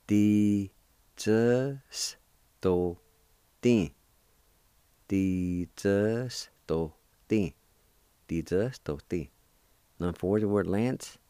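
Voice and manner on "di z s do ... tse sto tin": teacher sounds out the plural for students; syllable drill. Shown as a demonstration. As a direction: model "Ti, tse, sto, tin" one syllable at a time. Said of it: "It's pronounced like this".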